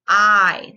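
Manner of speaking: I held clearly; long vowel I. Shown as a demonstration. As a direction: say the long I sound. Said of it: "long I".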